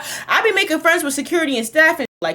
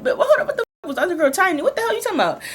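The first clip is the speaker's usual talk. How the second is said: mom yelling; 6 semitones higher, faster than usual. Retold or imitated. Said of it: "she started being like".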